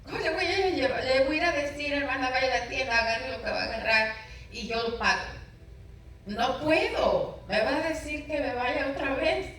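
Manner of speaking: mock-tearful pleading with God, pitched high; tearful plea. Retelling how she begged God while crying, a high, half-tearful plea. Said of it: "Y yo llorando le dije".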